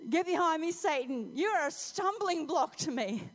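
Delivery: loud, forceful reprimand; stern rebuke. Acted. Jesus calls Peter a stumbling block, sternly. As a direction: drive each phrase at him loudly. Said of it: "it wasn't so gentle right then".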